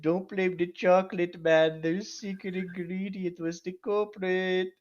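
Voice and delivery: slow, hammed-up mock Indian accent; stereotypical Indian accent. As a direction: put on a broad Indian accent, stretching the end. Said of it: "you were doing a stereotypical Indian accent".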